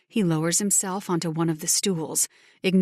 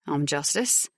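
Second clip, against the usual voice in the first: low male voice; 3 semitones lower than usual. Acted. Male character voice.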